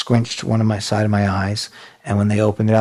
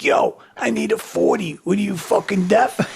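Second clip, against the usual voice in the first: retold impatience; 9 semitones higher than usual. Impatient shout to a dealer, retold.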